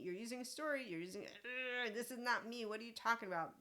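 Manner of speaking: mildly exasperated, pitch lifted; retold irritation. Retelling her reaction to being given a story, mild irritation. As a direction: protest as if fed up with being misread. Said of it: "I was very irritated".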